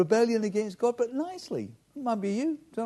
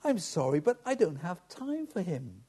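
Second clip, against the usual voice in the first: sweetly; 5 dB quieter than usual. Retold or imitated. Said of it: "She said sweetly".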